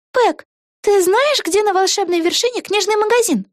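put-on excited young witch thinking aloud; Vega's voice. A narrator's reading. Вега. (высокий голос юной ведьмы Веги)

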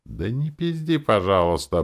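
high-pitched squeaky plea; squeak. A narrator's reading. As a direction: squeak it out in protest. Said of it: "пропищала Ленора".

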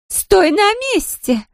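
put-on high, slow drunken yell; yelled command. A narrator's reading. Drunk Larisa yells at Zoya to stay, high and slow. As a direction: bark it at her to stay put. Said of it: "заорала Лариса".

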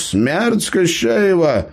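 high, slow gnome reveal after a long pause; dramatic reveal. A narrator's reading. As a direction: drop the answer slowly, like a magician. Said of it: "Гном сделал драматическую паузу".

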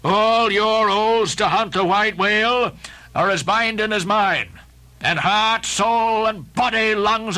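bind the crew with a stern vow; Ahab vowing. Acted. Ahab addressing the terrified crew, commanding. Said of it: "Ahab again spoke".

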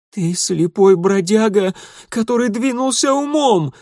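loud, high furious shouting; angry shout. Acted. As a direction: yell it at him in rage. Boy shouts at the old man.

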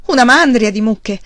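loud, high, exuberant promises; thrilled, carried away, loud; excited shouting. A narrator's reading. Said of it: "Charles gridò".

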